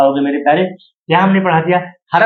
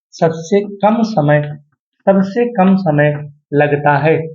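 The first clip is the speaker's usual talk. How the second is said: slow, word by word sabse kam samay; slow dictation; slower than usual. Shown as a demonstration. Teacher dictates the definition slowly to his students. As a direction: spell it out slowly so students can note it. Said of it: "ध्यान देना".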